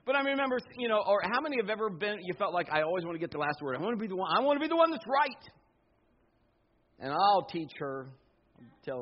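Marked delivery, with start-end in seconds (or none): 2.7-5.5 rising, insistent last-word voice; mock stubborn arguer; stubborn insistence. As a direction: push to win the argument, climbing up high at the end.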